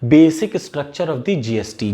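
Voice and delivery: very slow, word by word; dictating a search phrase slowly; slow dictation. Shown as a demonstration. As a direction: spell it out slowly for notes. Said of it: "Google पे डालिए".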